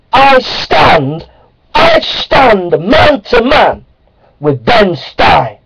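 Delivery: a grand slow vow of loyalty; slow proud declaration. Acted. Creationist declaring he stands with Ben Stein, slow and solemn. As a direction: draw out each word, slow and solemn.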